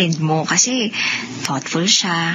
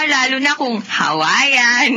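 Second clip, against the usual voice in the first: laughing; 3 semitones higher, slower than usual. Acted. Laughing over favorite pizza.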